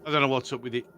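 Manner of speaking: breaking up on a bad connection; call dropping out. Real, not acted. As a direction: voice fading as the mic cuts out. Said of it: "my mic keeps cutting out".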